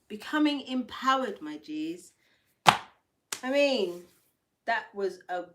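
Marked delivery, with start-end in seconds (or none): 0.1-1.4 hyped-up reread, higher pitch; pumped-up repeat; excited. Shown as a demonstration. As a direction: lift it up like a rallying cry.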